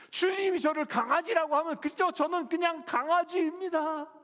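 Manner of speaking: loud, high, passionate confession; the woman cries out her devotion to the Lord; fervent surrender. Acted. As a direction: give yourself up to the Lord completely. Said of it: "이렇게 표현하면 이런 거예요".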